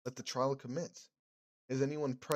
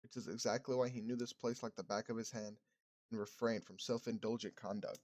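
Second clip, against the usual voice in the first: reverend's calm questioning. Acted. Streamer voices the reverend.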